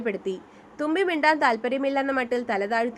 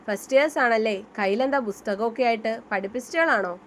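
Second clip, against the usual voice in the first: mocking. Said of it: "കൂട്ടത്തിൽ ഒരാൾ പരിഹസിച്ചു".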